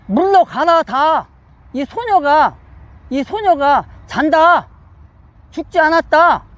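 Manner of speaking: slow, measured quoted command; firm proclamation. Acted. Preacher as Jesus addressing the noisy mourners, firm proclamation. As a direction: declare it in separated, emphatic phrases.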